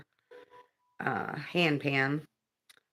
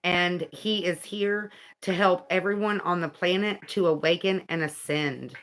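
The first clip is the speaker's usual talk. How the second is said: earnest, measured narration; guidebook reading; 3 semitones higher, 3 dB louder than usual. Acted. Reading about an angel's visit to viewers, earnest read-aloud. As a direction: read it out with deliberate phrasing.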